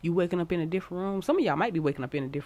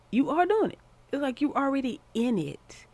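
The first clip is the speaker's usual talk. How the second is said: excited cheer; 9 semitones higher, 3 dB louder than usual. Real, not acted. Cheering the viewer on.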